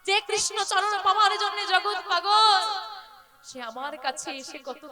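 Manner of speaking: Radha's lament. Retold or imitated. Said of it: "রাধারানীর কথা".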